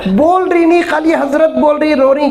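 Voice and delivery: high, mocking whimper of the caller; mocking whiny caller. (रोते हुए आदमी की ऊँची नकल)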